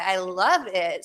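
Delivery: slow deadpan sarcasm; sarcastic. Pretend. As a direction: say it flatly, then undercut it. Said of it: "Said nobody ever".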